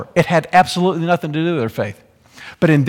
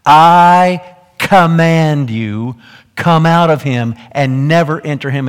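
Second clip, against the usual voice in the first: roaring command; 4 dB louder, slower than usual. Acted. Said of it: "You can almost hear the lion roaring".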